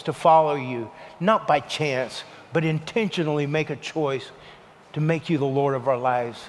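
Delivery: a pastor praying over bowed heads, low and earnest; leading prayer. Acted. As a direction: pray it over them, steady and humble. Leads the congregation in prayer.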